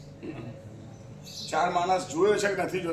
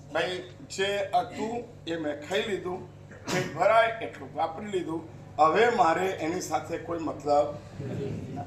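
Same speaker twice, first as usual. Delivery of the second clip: 1 blunt reply; 4 semitones lower, 4 dB quieter than usual. Pretend. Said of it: "આપણે ચોખ્ખું એમ કહી દેવાનું".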